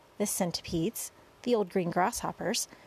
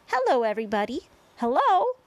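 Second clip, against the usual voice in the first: loud hello rising much higher; calling out; 6 semitones higher, 7 dB louder than usual. A narrator's reading. Boy waving to the crowd below, calling out. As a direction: call down happily to a crowd. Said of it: "waving and calling out".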